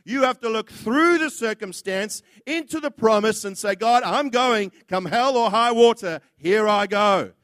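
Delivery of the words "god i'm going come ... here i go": loud and determined; bold declaration. Retold or imitated. Preacher voices the obedient believer, loud and resolute. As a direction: declare it like a vow. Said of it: "That's called obedience".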